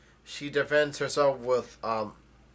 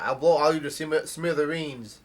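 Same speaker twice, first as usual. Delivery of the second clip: mildly raised voice, a bit higher and louder; mock threat, yelled with some restraint; retold yell; 3 semitones higher, 6 dB louder than usual. Bomber threatens everyone around her, retold as a mild yell. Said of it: "she yells out".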